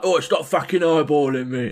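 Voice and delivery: hammed-up English hard-man warning; mock English heavy. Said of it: "because those accents are".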